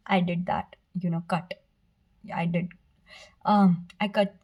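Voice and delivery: stumbling, stuttering over the words. Real, not acted. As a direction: trip over the words, restart. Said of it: "I'm stuttering".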